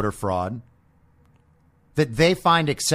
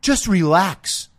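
laid-back dude; 6 semitones higher, 5 dB louder than usual. Retold or imitated. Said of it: "I had a dude say to me".

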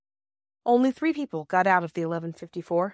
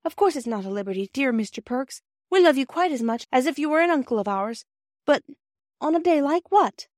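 put-on light, higher girlish voice, eager; young girl Bobby; 5 semitones higher, 3 dB louder than usual. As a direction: play Bobby, a bright, earnest young girl.

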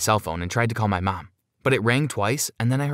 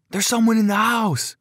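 high, raised cry of warning; high-pitched shout of alarm; alarmed scream; 11 semitones higher, 4 dB louder than usual. A narrator's reading. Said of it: "I screamed".

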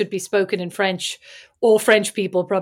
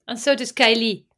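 put-on French accent. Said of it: "That was French accent again".

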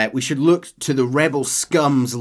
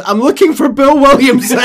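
very loud, high deadpan repeat; John ignoring the speech; blunt cowboy; 15 dB louder than usual. Acted. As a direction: cut him off bluntly. John ignoring captain, joking.

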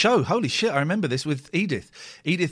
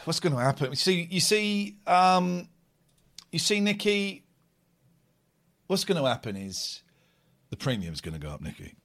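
mocking; 2 semitones higher than usual. Mocking friend over insurance rant.

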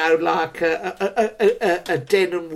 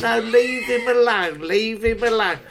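put-on young woman's voice; 5 semitones higher than usual. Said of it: "She goes".

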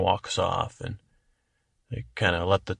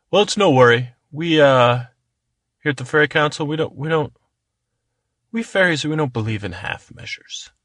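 cheerful fairy councillor; 3 semitones higher, 4 dB louder than usual. Acted.

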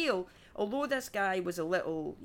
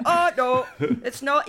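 very loud, raised comic objection; indignant protest; 4 semitones higher, 10 dB louder than usual. Acted. Comedian rejecting the doctor's conclusion, loud indignant protest. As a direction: protest loudly at a raised pitch. Mock outrage at the doctor's report.

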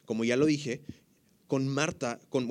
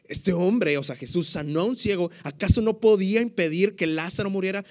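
louder, higher emphatic reread; onlookers' sceptical question, said louder and higher; 4 semitones higher, 4 dB louder than usual. Acted. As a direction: punch up the accusation. Repeating the onlookers' quote with emphasis.

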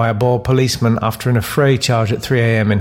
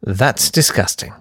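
The host. Acted. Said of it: "That's Lovely, with me, Brinsley Dearlove".

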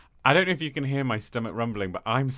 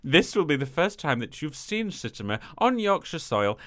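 put-on Yorkshire accent. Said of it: "I don't know what my accent's doing".

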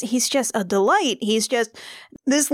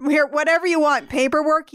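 higher, mock-flustered babble; flustered eagerness; 5 semitones higher than usual. Smitten student offering the pretty girl anything, mock-flustered. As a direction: play at being helplessly eager to oblige. Joins in imitating flustered Dade.

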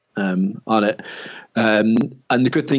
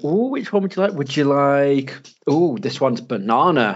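cooing ice cream server; 3 semitones higher than usual. Retold or imitated. Server coaxing the little boy at the counter, mock coo. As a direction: sweetly coax a toddler to pick a flavour. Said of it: "the woman was laughing, going".

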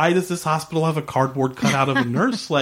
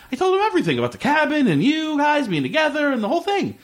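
mock eager explaining; faster than usual. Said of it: "He's like".

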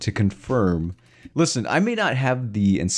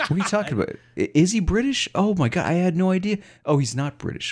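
mock surprise; 10 semitones higher than usual. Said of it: "And she's like".

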